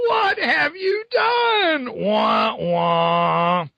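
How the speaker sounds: very high, slow hammed-up wail; mock wailing. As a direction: whine like a crybaby ghost. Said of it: "Ghost Spider-Man says".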